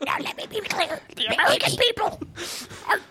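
fading Obama speech. Pretend. Obama speech, faint and high.

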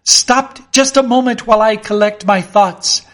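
flustered plea over the wind; anxious plea. Acted. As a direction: beg the storm for a moment. Pleading with the storm.

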